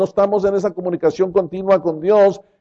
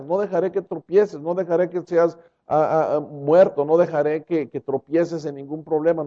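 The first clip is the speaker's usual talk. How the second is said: Jesus reassuring. Acted.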